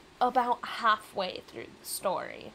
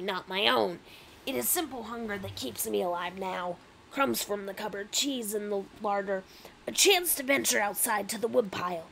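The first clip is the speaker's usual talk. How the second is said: lightly aggressive Rat King character; 4 dB louder than usual. Acted. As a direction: voice a rat with some push in it. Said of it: "that is an aggressive voice".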